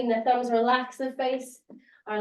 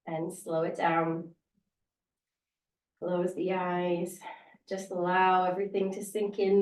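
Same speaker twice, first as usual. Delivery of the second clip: guided meditation; 3 semitones lower than usual. Acted. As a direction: ease them down into stillness. Slows class into a meditative rest.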